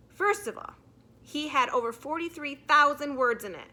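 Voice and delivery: put-on a kid earnestly rattling off facts; boy giving an oral report to the class; schoolboy reporting. Nick gives his report.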